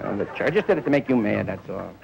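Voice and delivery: ordinary talk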